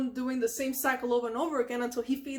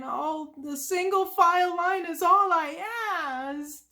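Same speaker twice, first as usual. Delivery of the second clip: Squidward; 5 semitones higher, 5 dB louder than usual. Retold or imitated. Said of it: "Squidward is just going".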